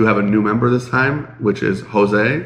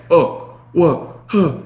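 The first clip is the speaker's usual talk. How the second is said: high, startled "huh" on hearing again; surprised; 8 semitones higher, much slower than usual. Retold or imitated. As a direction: act like you can suddenly hear, high and startled. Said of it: "to, like".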